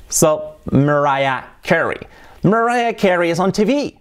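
The singer's name as mer-RYE-a KE-ree; native-style English. Shown as a demonstration. Teacher modelling the name in a sentence, English pronunciation. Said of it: "Así sonaría".

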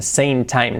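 "same" ending in N; "same time" with N for M; imitated student error. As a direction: copy students' "sane time". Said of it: "alumnos que dicen".

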